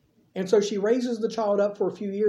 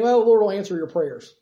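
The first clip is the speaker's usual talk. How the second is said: brushing her off with a stock answer; a throwaway pious line, not really listening; dismissive; 4 dB louder than usual. Retold or imitated. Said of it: "kind of dismissively saying".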